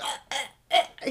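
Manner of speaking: short choking noises, mimicked; imitated choking. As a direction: imitate a kid choking on spaghetti. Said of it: "He'd start choking".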